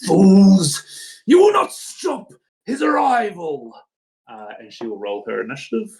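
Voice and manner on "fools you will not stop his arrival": shrill, swooping, screeching monster voice. A figure stepping through the portal speaks, shrill, screeching voice. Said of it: "shrill, muted bass voice with also the treble turned way up high to a screeching sound".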